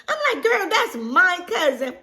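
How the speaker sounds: laughing through words; delighted laughter. Real, not acted. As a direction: giggle out the discovery. Cousin discovery laughing.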